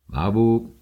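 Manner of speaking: calling the name «محبوب» out brightly; «محبوب» called out, rising. Acted. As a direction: call «محبوب» across the house. Father calls daughter to read.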